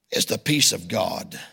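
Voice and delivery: low, tender repeat; soft savoring. Real, not acted. Pastor savoring the verse, low and tender. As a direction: savor each word gently. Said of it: "I just like the sound of that".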